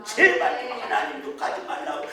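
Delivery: hushed imitated plea of the mother; pleading whisper. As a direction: whisper the plea urgently, as if begging a drunk to stop. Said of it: "막 그랬어요".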